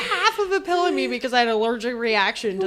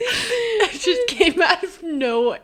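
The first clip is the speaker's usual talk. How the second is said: laughing; 2 semitones higher, slower than usual. Real, not acted. Laughing apology.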